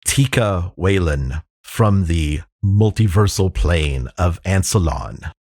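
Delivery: a hint of a grave chef, slow and deliberate; solemn chef. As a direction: slowly recount a legendary pan's history. Game master voices the chef.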